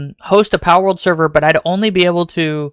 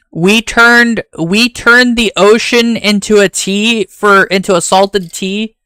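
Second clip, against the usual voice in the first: excited; 4 semitones higher, 4 dB louder, slower than usual. Real, not acted. Excited joke about the tea party.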